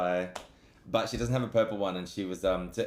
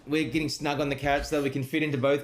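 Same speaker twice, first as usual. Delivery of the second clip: higher, lively plug to the chat; streamer shout-out; 6 semitones higher than usual. Real, not acted. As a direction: hype up the stream audience. Calls out to his stream audience.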